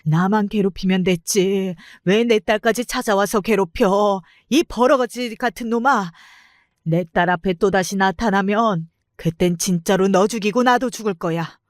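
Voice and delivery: a touch of a mother howling at the father; mild wailing rage. Retold or imitated. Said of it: "비명 같은 소리를 지르며 울부짖었어요". (아빠에게 울부짖는 엄마의 절제된 분노)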